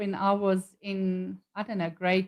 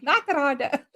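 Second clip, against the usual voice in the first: put-on light Afrikaans accent of a starstruck kid; lightly imitating a little Afrikaans boy; 3 semitones higher, slower than usual. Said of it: "in his little Afrikaans accent".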